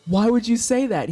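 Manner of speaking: rising mock indignation. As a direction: push the repeat up into a whine. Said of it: "And I'm like".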